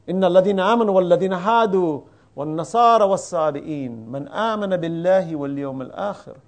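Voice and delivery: quick chanted Arabic recitation; quranic recitation. Acted. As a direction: recite the verse rapidly in Arabic. Quoting Quran verse in Arabic.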